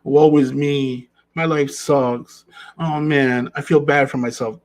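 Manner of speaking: slow, whiny woe-is-me; mock self-pity. Host mocks the self-pitying man, mock whine. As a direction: ham up the self-pity lightly. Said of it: "not to be confused with".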